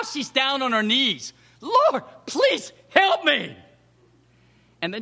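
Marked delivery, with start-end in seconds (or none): 1.6-3.6 drawn-out, pitched-up begging; slow, raised plea for help; slow, high plea. Retold or imitated. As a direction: stretch it out, begging on your knees. Woman on her knees begging.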